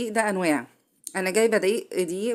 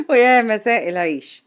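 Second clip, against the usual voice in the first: bright laughing lift on the greeting, a bit louder; 4 semitones higher, 5 dB louder than usual. Real, not acted. Cook greeting her viewers, laughing. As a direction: laugh your way into the hello.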